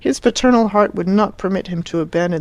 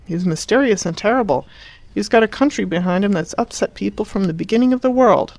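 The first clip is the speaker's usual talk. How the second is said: heated; 4 semitones higher than usual. Acted. Son ranting about Italy.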